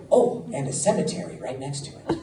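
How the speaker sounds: put-on old Irishman's voice; awful Irish accent. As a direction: imitate an Irish village elder, badly. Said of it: "my Irish accent, I know, is awful".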